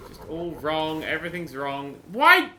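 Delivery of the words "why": exasperated yell. Real, not acted. Exasperated at the game going wrong.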